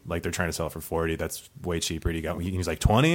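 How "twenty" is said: higher, rising one-word check; surprised query. Retold or imitated. Buyer hears the cheap ticket price, surprised query. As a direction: imitate a buyer perking up at a bargain.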